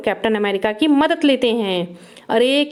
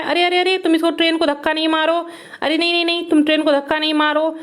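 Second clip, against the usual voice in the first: mock scolding; 3 semitones higher, faster than usual. Scolding the toy car.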